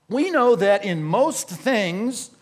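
"most" leaned on, whole phrase read slowly; slow, deliberate reading with weight on "most"; stress on most. Shown as a demonstration. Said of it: "underline the word most there".

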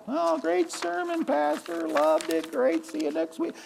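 high, soft and slow, a light mock of a churchgoer brushing off the sermon; airy, careless praise on the way out the door; breezy churchgoer. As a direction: congregant mocked as they leave church, high and soft.

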